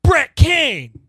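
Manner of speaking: slam poet voice. Retold or imitated. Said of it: "you take these dramatic, long dramatic pauses".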